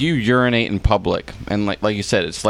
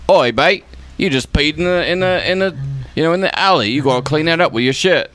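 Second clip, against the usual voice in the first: put-on Australian accent; 5 semitones higher than usual. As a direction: bark it like a rough Australian cop. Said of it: "that was like Australia".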